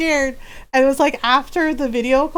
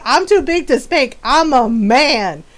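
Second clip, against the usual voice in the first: retold cocky boast. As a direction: imitate a brother's cocky declaration. Brother's boast acted out again.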